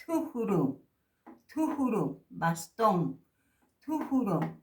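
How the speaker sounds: "Tujuru" with a breathy t, falling; aspirated t. Shown as a demonstration. Teacher modelling aspirated t for students, breathy. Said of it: "La T con H".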